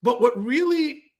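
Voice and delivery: ordinary talk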